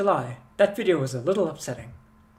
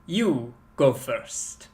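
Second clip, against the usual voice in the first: slow, low stubborn reply; 4 semitones lower, 4 dB quieter, much slower than usual. Acted. Stubborn informant refusing to go first, slow and low.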